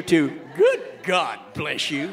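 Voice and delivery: "Good God bless you" slow, Good on a rise; slow laughing "Good God bless you"; stress on Good. Shown as a demonstration. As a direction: lean into "Good" slowly, laughing. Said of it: "we might have to change "God bless you".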